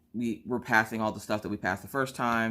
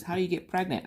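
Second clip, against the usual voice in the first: put-on child voice; 8 semitones higher, faster than usual. Kid voiced in story.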